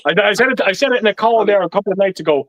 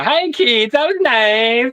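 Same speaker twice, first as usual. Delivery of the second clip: imagined guest greeting; 4 semitones higher, much slower than usual. Retold or imitated. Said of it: "he was gonna go".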